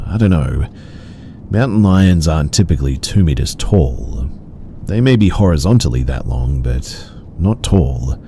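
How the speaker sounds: ordinary delivery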